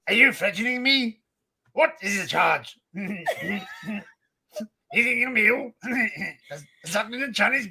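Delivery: put-on outrage of a ranting character; mock indignation. Mimicking characters to amuse friends, mock-indignant voice.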